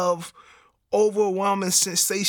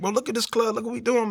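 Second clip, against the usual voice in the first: higher-pitched imitation of a protesting friend; incredulous homie; 6 semitones higher than usual. Homie argues with him about leaving the club, incredulous. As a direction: pitch it up, urging him to look around.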